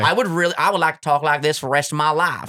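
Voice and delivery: put-on Southern accent. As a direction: play a dip-spitting good old Southern boy. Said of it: "The Southern accent to me is the best one".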